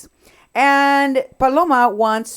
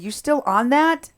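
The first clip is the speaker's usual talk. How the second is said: slow, higher mock disbelief on "You're still on that?"; retold disbelief; 7 semitones higher than usual. Host retelling Krista's scoff to viewers, mock disbelief. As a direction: drawl the retold scoff lightly. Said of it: "She's like".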